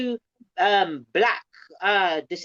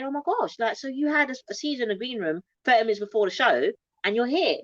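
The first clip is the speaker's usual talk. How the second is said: mock shocked, pitched up; shocked lady; 4 semitones higher than usual. Fan amazed she performed after a seizure, mock shocked. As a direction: lightly act her amazement, higher. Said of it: "she was really, like, shocked".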